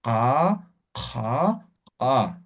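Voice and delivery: ka from deep in the throat, without strain. Shown as a demonstration. Teacher modelling the natural throat ka again. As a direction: let ka sound from the throat. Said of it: "pronuncien desde la garganta".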